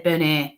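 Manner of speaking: Bernier as "buh-NAY"; French-sounding name. Retold or imitated. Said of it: "it just sounded French".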